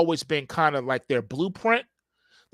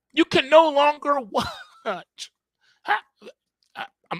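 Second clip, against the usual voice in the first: very high, choked-up voice catching and breaking off; 9 semitones higher than usual. Complaining that Netflix dropped Star Trek and Twilight Zone, choked up. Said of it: "I'm getting choked up".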